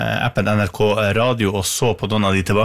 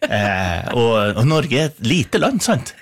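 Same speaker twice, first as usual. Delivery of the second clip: imitating a singer; slower than usual. Retold or imitated. Host parodies a musician guest's speech habit, attempted Trøndelag accent. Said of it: "prøvde å parodiere en sanger".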